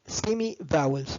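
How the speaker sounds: semi vowels said slowly, each syllable clear; slow model term. Shown as a demonstration. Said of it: "بنسميهم semi vowels".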